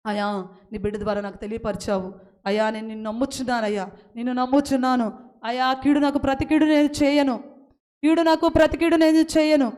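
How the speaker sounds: pleading prayer to God, steady and sincere; heartfelt spoken prayer; earnest prayer. Acted. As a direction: pray aloud as if for the whole church.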